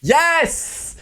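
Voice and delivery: high bright imitated "Yes!"; mock taxi driver yes. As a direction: play the eager taxi driver. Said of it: "le taxi, il est comme ça".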